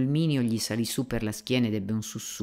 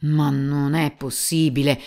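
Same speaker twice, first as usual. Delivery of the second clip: shocked cry; 3 semitones higher, 5 dB louder than usual. Acted. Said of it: "gridò il più giovane".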